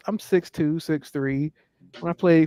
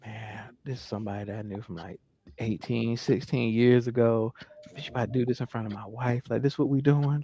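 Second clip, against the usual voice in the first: low, hushed thinking to himself; retold uneasy inner monologue; worried inner voice; 5 semitones lower, 8 dB quieter than usual. Retold worried inner thought on seeing her.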